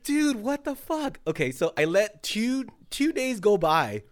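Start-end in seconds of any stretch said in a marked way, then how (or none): 0.0-1.2 exasperated. Retold or imitated. Quoting own reaction to wax.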